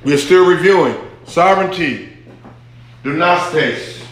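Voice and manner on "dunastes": Dunastes with the stress on the second syllable, du-NAS-tes; Greek pronunciation. Shown as a demonstration. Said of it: "The emphasis on the second syllable".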